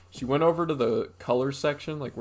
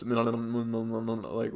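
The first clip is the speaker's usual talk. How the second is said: mumbled talking to herself. Retold or imitated. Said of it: "like, doing this".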